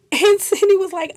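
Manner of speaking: laughing through the words. Real, not acted. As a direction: giggle as you set it up. Laughing while retelling.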